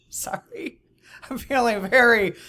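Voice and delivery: whispered, exasperated aside; real whispered frustration. Real, not acted. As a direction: hush it like a confession, then a laughing sorry. Venting, then apologizing.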